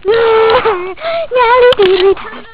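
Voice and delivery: loud playful calling out; shouting. Real, not acted. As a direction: call out to her across the yard. Kids calling each other out.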